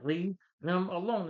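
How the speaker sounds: slow, loud, high yell; boy yells at the bully to stop; angry shout. Retold or imitated. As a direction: bellow it slowly in anger. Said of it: "And Will gets mad".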